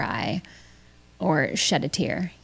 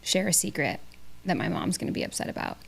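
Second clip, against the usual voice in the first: hushed secret; 7 dB quieter, faster than usual. Acted. Confiding a secret to viewers.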